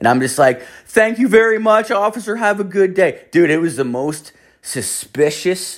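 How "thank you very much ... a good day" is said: put-on nervous, scared, polite, very high-pitched. Retelling answering police officers while high, retelling a scared reply. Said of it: "that guy seems really scared right now".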